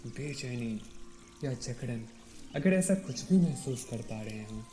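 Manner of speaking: calm meditation guide, long pauses between phrases; guided meditation. Real, not acted. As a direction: ease them into stillness, leaving space after each instruction. (शांत ध्यान निर्देश, ठहर-ठहर कर)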